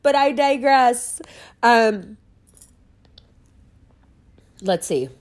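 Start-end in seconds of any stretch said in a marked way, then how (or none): 0.0-1.2 high, theatrical but I digress; hammed-up teacher voice saying but I digress; Mister Mulgrew. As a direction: put on a grand schoolmaster flourish. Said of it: "keep the Mister Mulgrew tradition alive".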